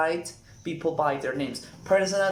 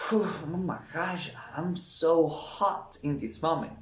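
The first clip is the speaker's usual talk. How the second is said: overheated. Shown as a demonstration. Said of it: "You feel".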